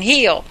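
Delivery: "heel" with a long ee instead of hell; child's pronunciation. Retold or imitated. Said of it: "that's her little, little accent".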